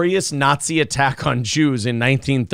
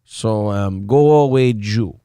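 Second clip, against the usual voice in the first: mock German accent; 2 semitones lower than usual. Shown as a demonstration. Host trying again at a German accent. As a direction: drag it out like a cartoon German. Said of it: "You're getting closer".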